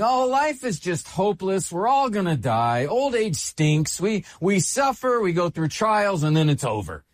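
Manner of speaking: a lightly voiced gloomy fatalist; mock hopeless lament. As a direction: sigh it out like someone who has given up, not too heavy. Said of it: "here where he's saying".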